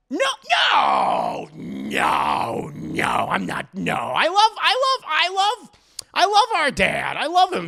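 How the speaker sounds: loud, high, panicky protesting; frantic denial. Acted. Dio shouting his innocence at JoJo, frantic and loud. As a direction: plead loudly that you love him.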